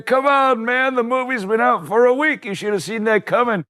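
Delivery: annoyed yelling. Retold or imitated. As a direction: scold him for panicking. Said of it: "yelling at me".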